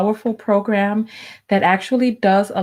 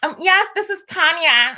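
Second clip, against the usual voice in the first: sweet phone voice; 6 semitones higher than usual. Shown as a demonstration. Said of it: "I ain't switching to that voice".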